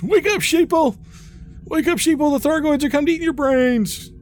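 shrill, high street-corner doomsayer; conspiracy theorist. Pretend. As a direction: rant like a wild-eyed conspiracy nut.

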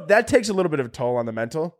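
real laugh breaking into the words. Real, not acted. Comic laughing about his closet-sorting fixation. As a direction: laugh through the line.

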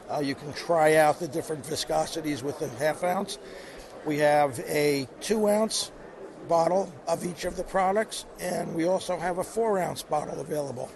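hoarse, worn-out voice; losing voice. Real, not acted. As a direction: speak through a tired, hoarse throat. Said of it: "I'm losing my voice a little bit".

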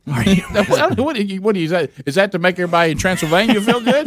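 hammed-up Transylvanian vampire, lightly voiced. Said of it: "you just did a vampire".

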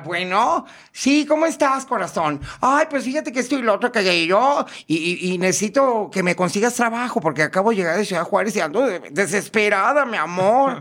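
high, put-on campy caller; imitated transvestite voice. Prankster poses as a transvestite looking for work, high camp voice. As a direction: gush in a hammed-up high feminine voice. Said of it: "yo le seguí igual".

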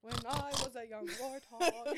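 slow, high, goofy Pumbaa voice; sing-talk it like a cartoon warthog; warthog impression. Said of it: "That was my warthog impression".

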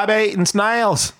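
light mock Australian accent. Shown as a demonstration. Host showing the guest what to try, mock Australian accent. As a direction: model the line in broad Australian vowels. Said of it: "Try an Australian accent".

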